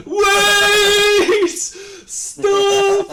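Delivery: very high, loud yell after the riders; calling out. Acted. Guard shouting after the griffin riders to stop. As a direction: bellow to stop them at a distance.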